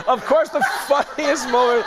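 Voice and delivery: words breaking up in laughter; giggling through the intro; laughing. Real, not acted. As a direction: try to read the line but crack up. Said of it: "that made me laugh".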